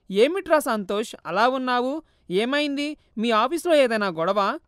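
a lightly voiced anxious mother asking her son; mild worried mother; mother's worried voice.

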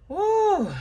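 surprised woo. Real, not acted. Reaction to card drawn.

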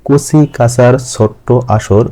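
slow, measured verse line; rhyme recitation. Shown as a demonstration. Teacher reciting own rhyme to students, slow verse reading. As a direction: recite it slowly as flowing children's rhyme. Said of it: "আমি ছড়াটা একটু পাঠ করছি".

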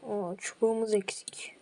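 candy in the mouth; sucking a hard candy. Real, not acted. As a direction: talk around a hard candy. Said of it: "Ağzımda şeker var da".

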